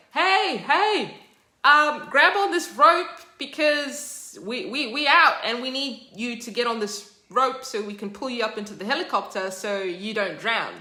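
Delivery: shouting rescuers. Retold or imitated. Helicopter crew shouting to Stan on the roof. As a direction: shout down over the rotor noise.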